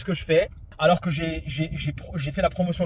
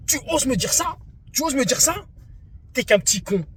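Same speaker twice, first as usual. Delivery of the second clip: mock outraged opponent; 9 semitones higher than usual. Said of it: "Et il me dit".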